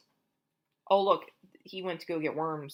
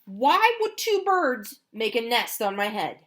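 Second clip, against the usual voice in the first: louder, anxious disbelieving questions; worried Elephant; 2 semitones higher, 7 dB louder than usual. Acted. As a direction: fret about birds on your head. Reader voices worried Elephant.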